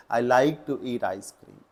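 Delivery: very slow, word by word; slow corrected phrase. Shown as a demonstration. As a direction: dictate the right option. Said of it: "ये option number C ज़्यादा meaningful होगा". (धीमे सुधार)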